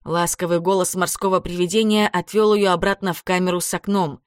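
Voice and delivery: usual speaking voice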